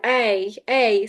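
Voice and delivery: "A" as a drawn-out "ay"; long vowel demo. Shown as a demonstration. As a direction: hold each "A" long and separate. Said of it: "so I do that".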